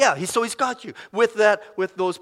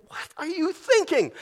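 incredulous rebuke; 10 semitones higher than usual. Real, not acted. Preacher rebuking viewers.

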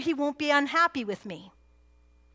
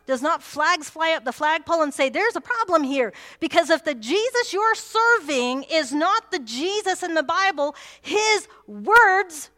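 louder and higher, pressing the warning; preaching at full force; 3 semitones higher, 5 dB louder than usual. Acted. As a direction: sound the alarm from the pulpit.

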